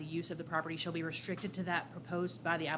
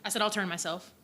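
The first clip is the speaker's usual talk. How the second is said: repeated louder, more projected; 3 dB louder than usual. Real, not acted. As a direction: say it again louder so the room hears. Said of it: "What's that?".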